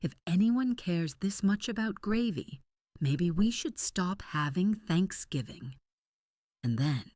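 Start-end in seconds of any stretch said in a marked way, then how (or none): 0.0-5.8 high-pitched, exasperated cry; mild narrated scream; screamed outburst. A narrator's reading. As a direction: pitch it up in outrage, without full volume. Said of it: "and screamed".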